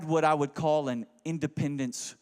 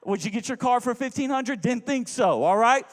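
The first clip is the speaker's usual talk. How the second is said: defiant; 5 semitones higher than usual. Retold or imitated. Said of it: "I'm like".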